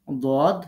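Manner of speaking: "দোয়াদ" said thick and full-mouthed; heavy, full articulation. Shown as a demonstration. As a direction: pronounce "দোয়াদ" as a heavy emphatic Arabic letter. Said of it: "মোটা করে উচ্চারণ করতে হবে". ("দোয়াদ" মোটা করে উচ্চারণ)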